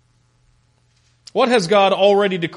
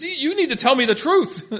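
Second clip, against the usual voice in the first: high-pitched mock complaint, half laughing; mock yelling; 9 semitones higher than usual. Ahab yelling at the prophet for good news, mock indignant. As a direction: play the indignant king, without real anger. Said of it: "Ahab yells at him".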